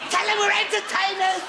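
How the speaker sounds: frantic plea. Acted. Panic under gunfire, begging surrender.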